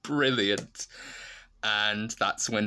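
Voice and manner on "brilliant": delighted. Retold or imitated. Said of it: "And I thought".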